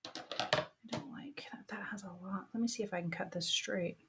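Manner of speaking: breath held, whispering; holding breath. Real, not acted. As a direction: hold your breath while cutting. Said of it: "I'm holding my breath".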